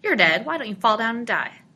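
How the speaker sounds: put-on loud, demanding child's shout; crying out. A narrator's reading. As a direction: shout it like a frustrated boy, rising high. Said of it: "he cried".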